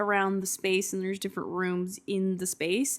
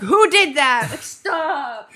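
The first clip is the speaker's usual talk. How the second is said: high indignant mock outrage; outraged chat users; 6 semitones higher, 7 dB louder, much slower than usual. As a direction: squeal it like offended users. Everyone reacting in chat room.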